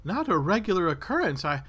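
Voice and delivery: lightly voiced, lilting villager; earnest older woman. Older woman answers adventurer on living unarmed, lightly voiced and earnest. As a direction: lightly play an older woman insisting on her point. Game master plays the old woman.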